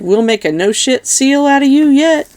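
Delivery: high, building cheer; hearty toast climbing in pitch; rousing toast. Acted.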